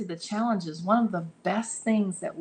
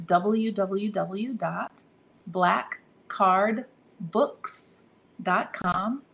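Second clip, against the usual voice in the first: very slow, word by word; spaced out with pauses between the words; slow spelling-out; much slower than usual. Real, not acted. Giving the website address to listeners, slow and deliberate. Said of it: "I have to say it slow".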